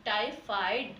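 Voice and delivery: टाइफाइड said clearly with the dotted फ; teacher modelling टाइफाइड; careful pronunciation. Shown as a demonstration. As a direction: model टाइफाइड slowly for the class. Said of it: "इसका उच्चारण कैसे करेंगे हम".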